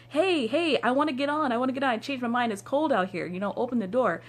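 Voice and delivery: high, pleading call to be let on; fake pleading. To the driver through the door, high fake pleading. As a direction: pretend you changed your mind and want in.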